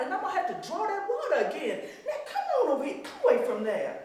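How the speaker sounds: a hint of a mother calling her child; loving mother calling. Mother calling her daughter away from the spring, fondly. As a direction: call the little girl back, fond and firm.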